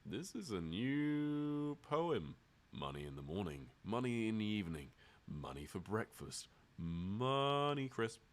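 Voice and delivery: drawn-out, sing-song poetry reading; mock poem recital. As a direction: recite a silly poem, stretching the ends.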